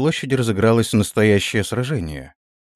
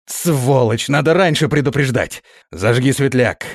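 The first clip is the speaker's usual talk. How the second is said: angry scolding; 4 semitones higher, 3 dB louder than usual. Acted. Prince berates guard after bump.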